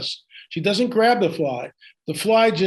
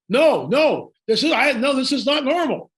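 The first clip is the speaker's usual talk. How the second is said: higher, halting stammered denial; flustered stammer; 8 semitones higher than usual. Retold or imitated. Al stammering when asked about his behavior, flustered and halting. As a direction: fumble for words, flustered. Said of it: "trying to get the words out".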